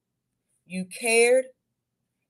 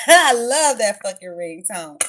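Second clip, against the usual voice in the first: excited; 13 dB louder, slower than usual. Real, not acted. Gushing after laughing at ringtone.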